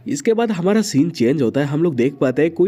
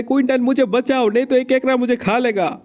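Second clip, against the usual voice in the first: a mild mock cry for help, pitched higher; screaming for help; 6 semitones higher than usual. Yulin begs Quinton to save him from a crab: mild mock scream. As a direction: call out as if a crab is grabbing you. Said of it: "Yulin चिल्ला रहा होता है".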